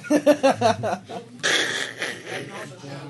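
loud startled whoa into laughter; surprised shout. Real, not acted. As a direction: react to a sudden mess, laughing. Big sack dumped on table.

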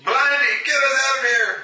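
high, urgent call; calling out for help. Acted. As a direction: call up to your companion for a rescue. Calls to another character for rescue.

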